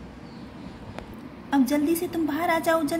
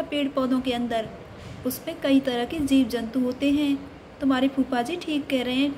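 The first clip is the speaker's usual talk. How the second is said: lightly voiced mother; mother scolding gently; 3 semitones lower than usual. Mother voice, lower.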